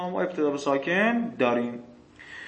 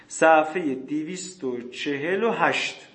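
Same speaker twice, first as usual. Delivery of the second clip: slow dictation; slower than usual. Shown as a demonstration.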